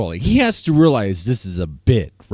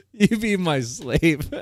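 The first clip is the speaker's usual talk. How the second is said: laughing; 4 semitones higher, 4 dB quieter, slower than usual. Real, not acted. Laughing while mocking friend.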